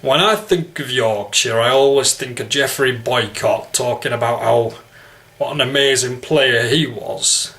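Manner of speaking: Yorkshire vowels in the speaker's own pitch; Yorkshire accent. Shown as a demonstration. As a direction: talk cricket like a Yorkshireman. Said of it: "okay, Yorkshire".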